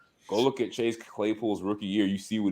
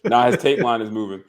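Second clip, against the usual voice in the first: laughing; 6 dB louder than usual. Real, not acted. Laughing about frozen video.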